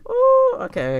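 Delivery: high, loud impressed ooh. Real, not acted. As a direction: react amazed. Impressed by a line.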